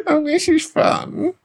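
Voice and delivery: high, slow, spiteful mimicry of a friend; venomous impression. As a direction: sneer it out with no joy. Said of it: "the most venomous impression of me".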